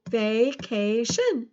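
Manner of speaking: "Vacation" slowly split into three beats; slow, separated syllables in "Vacation". Shown as a demonstration. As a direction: sound out "Vacation" as va, ca, tion. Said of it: "How many syllables does vacation have?".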